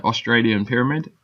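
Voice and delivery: a slip into an amateur Australian accent; lightly put-on Australian accent, lifting at the end. Real, not acted. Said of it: "Probably even said that in an Australian accent".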